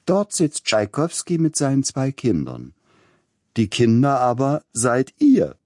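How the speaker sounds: put-on high-pitched voice of a lady instructing her child; Leipzig lady lecturing her daughter. A narrator's reading. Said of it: "sprach die Dame und wies auf uns". (hohe, belehrende Stimme einer Leipziger Dame)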